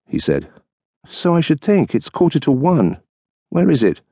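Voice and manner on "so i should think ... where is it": higher, lightly voiced wife, tart; dry retort as the wife; wife's voice. Wife waiting up for her husband, tart retort.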